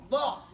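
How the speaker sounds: Law firm, with a heavy emphatic d; teacher repeating Law for the student; correcting ḍād. Shown as a demonstration. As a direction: drill Law as a dark ḍād syllable. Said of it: "your pronunciation is terrible".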